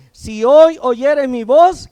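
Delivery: loud, slow, each word driven home; emphatic scripture. Shown as a demonstration. Preacher calling the young to hear, loud and slow. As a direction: preach it out to the whole room. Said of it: "versículo siete".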